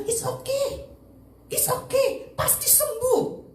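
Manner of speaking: high-pitched, confident comforting; insistent reassurance. Retold or imitated. Mother comforting her child about cancer, insistent reassurance. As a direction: reassure them with total conviction.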